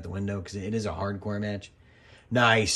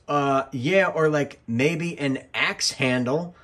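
deadpan suggestion; 5 semitones higher, 5 dB louder, slower than usual. Retold or imitated. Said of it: "Daniel Bryan goes".

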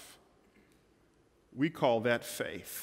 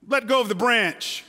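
God's calm command; 7 semitones higher, 5 dB louder than usual. Acted. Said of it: "Finally, God says".

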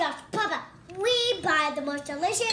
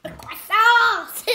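louder, slow mock French "croissant"; child showing off a French move, slow and loud; hammed-up French; 8 dB louder, slower than usual. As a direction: announce "croissant" like a proud French waiter. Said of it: "your new French move".

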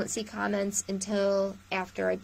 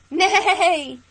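higher, louder playful neigh; whinny it like a horse for the kids; hammed-up storytime horse; mock horse neigh; 8 semitones higher, 10 dB louder than usual.

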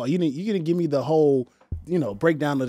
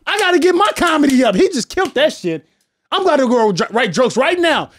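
awed fellow comic; 11 semitones higher, 4 dB louder than usual. Retold or imitated. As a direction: squeal like a starstruck peer. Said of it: "I'm like".

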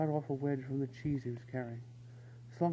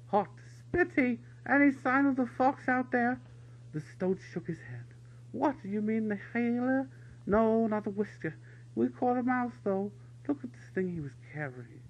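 higher, louder soldier voices; calling out; 8 semitones higher, 4 dB louder than usual. A narrator's reading. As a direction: shout across the yard. Soldiers calling across parade ground.

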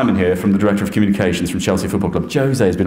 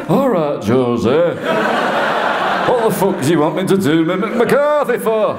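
higher, gruff Yorkshire-Irish manager voice, strange timbre; manager's blunt northern accent; Mick McCarthy impression; 8 semitones higher than usual. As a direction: answer Jose as Mick McCarthy would, blunt. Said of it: "Do your Mick McCarthy".

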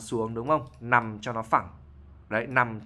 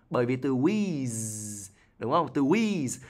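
breathy wheeze demo; much slower than usual. Shown as a demonstration. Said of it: "giọng nói nó như kiểu tiếng gió".

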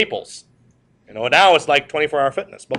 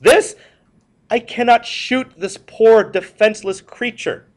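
shocked president; 7 semitones higher than usual. Retold or imitated. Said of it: "And he said".

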